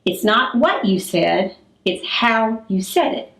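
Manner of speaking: slow, deliberate scolding with weight on "what" and "how"; mother's correction. Retold or imitated. Mother answering teenager's "what", slow pointed correction. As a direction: correct a teenager word by word, slowly. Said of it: "her response would be".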